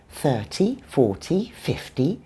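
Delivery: "thirty, forty, fifty" each stressed on the first syllable. Shown as a demonstration. Teacher listing example numbers, first-syllable stress on "thirty, forty, fifty". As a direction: hit THIR, FOR, FIF, letting "-ty" stay light. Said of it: "the stress is always on the first syllable".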